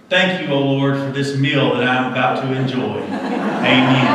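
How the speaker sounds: bear's grace with laughter breaking in; praying bear, laughing. Retold or imitated. The bear prays before eating the man, said through a laugh. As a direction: say the punchline grace while chuckling. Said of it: "And he says".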